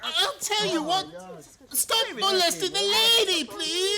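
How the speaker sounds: urgent pleading cry over the rabble. Acted. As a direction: shout to make way for the lady. Disguised Holmes shouts at brawlers.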